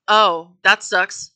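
slow, flat dismissive sympathy. Retold or imitated. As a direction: brush it off, unimpressed. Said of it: "I say".

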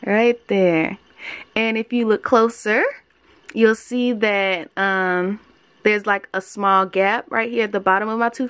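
lip held down by finger; talking with lip pulled down. Real, not acted. Seen 0: Fingertip holds lower lip down while she speaks and shows teeth.

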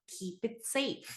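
teacher quietly repeats the phrase, soft echo. Shown as a demonstration. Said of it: "이거 되게 되게 많이 쓰는 표현이에요".

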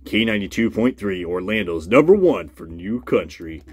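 hammy radio DJ read. Pretend. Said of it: "I'm gonna talk like a radio voice guy now".

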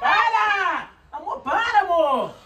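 loud high pleading yell; shouting. Real, not acted. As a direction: yell at her to stop. Fending off kisses.

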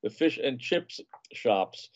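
slow, carefully re-said fish and chips shops, each word placed; slow down and get the phrase right this time; careful slow correction. Shown as a demonstration. Host correcting his stumble, slow and careful. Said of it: "excuse me".

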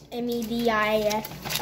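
spelling it out letter by letter, slowly. Real, not acted. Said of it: "Why are you spelling it?".

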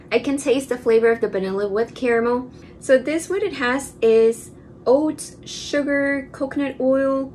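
savoring food while talking; slightly full mouth; speaking right after a bite. Real, not acted. Seen 1: Holds tub and spoon, savoring with closed mouth after bites.

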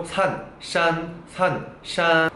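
산 drawn out slowly; Chinese word demo. Shown as a demonstration. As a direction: repeat 산 for learners. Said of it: "발음 비슷하죠?". (산을 천천히 반복)

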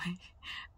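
een ingehouden, gefluisterde lach; gesmoorde lach. Real, not acted. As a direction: lach zacht binnensmonds. Stifled laugh.

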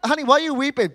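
lightly voiced husband asking gently; mock caring husband. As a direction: play the puzzled husband. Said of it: "when I say".

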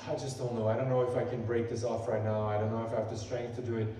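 low, subdued self-doubt; doubting inner voice. Acted. Preacher voices the enemy's doubts in his mind, subdued doubting. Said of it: "sometimes the enemy comes in".

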